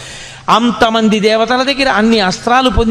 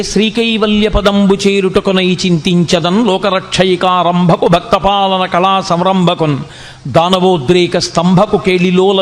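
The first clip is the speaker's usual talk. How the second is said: recited Telugu poem. Acted. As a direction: draw out each phrase like a classical poem.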